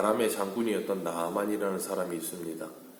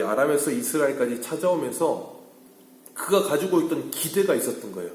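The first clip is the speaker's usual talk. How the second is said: raised, higher-pitched pulpit voice; emphatic preaching; 4 semitones higher, 3 dB louder than usual. Acted. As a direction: preach it with rising insistence. Preacher builds up the point. (힘주어 높인 설교조)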